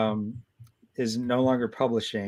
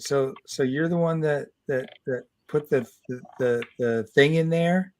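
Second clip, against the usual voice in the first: put-on hesitant kid; 4 semitones higher than usual. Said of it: "he was very hesitant, very shy".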